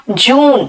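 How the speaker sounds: जून with the oo held long. Shown as a demonstration. Teacher restating the right word, long-vowel जून. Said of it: "जून नहीं कहा".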